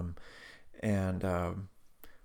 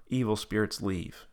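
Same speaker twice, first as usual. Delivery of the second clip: measured prayer command; prayer leader's line. Retold or imitated. Leading Tab against evil spirits, measured prompt. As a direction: give the line to be repeated. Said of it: "repeat after me prayer".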